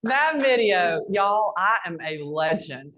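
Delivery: drawn-out announcement. Real, not acted. Bragging to the crowd.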